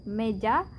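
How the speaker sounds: mella as Indonesian meja, short e; Indonesian word. Shown as a demonstration. Teacher gives the Indonesian form of mesa: Indonesian pronunciation. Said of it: "Aquí decimos".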